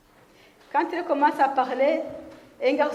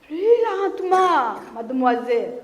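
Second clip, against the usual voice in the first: mocking classmate; 3 dB louder than usual. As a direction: drag it out to tease her. Pancarte du garçon moqueur. (taquinerie lente et forte)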